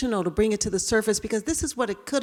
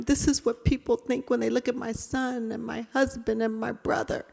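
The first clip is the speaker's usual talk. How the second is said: retold sobbing; 5 semitones higher than usual. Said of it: "I started to sob".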